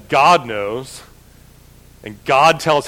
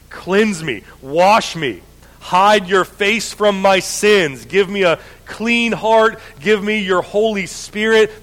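prayerful psalm reading; slower than usual. Acted. David confessing his sin to God, prayerful and slow. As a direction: read the psalm as a heartfelt prayer. Reads Psalm fifty-one.

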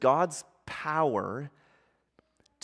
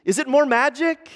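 high, loud bewildered questions; storybook girl's urgent, raised voice; Susan crying out; 11 semitones higher, 7 dB louder than usual. A narrator's reading. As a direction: keep the cry up through each question. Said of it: "cried Susan".

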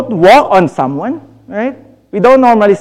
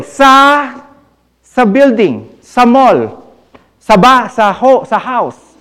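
Tagalog-English mix with sa; Taglish; 3 semitones higher, slower than usual. Shown as a demonstration. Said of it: "speaking Taglish".

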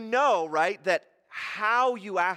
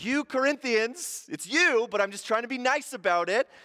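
imaginary heckler; 5 semitones higher than usual. Retold or imitated. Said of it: "this imaginary person".

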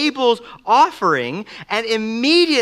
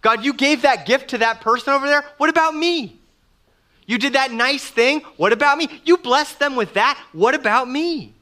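jealous complaint; 4 semitones higher than usual. Retold or imitated. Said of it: "we begin to think".

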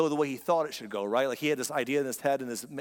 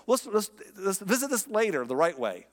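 flustered stalling; 5 semitones higher than usual. Retold or imitated.

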